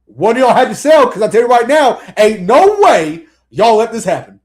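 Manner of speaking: loud, animated mock dressing-down; coach chewing out players. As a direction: rant like a coach at the team. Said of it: "talk like this at work".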